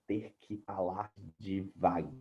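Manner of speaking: slow, deliberate words. Real, not acted. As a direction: spell each word out slowly.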